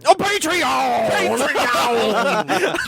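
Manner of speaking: monster truck ad. Pretend. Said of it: "come see the fucking Monster Truck rally".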